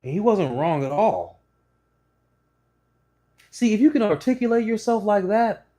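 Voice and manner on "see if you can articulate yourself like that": high, loud emphatic praise; punchy vlog emphasis; emphatic point. Real, not acted. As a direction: drive the point home. Praising the owner's articulation.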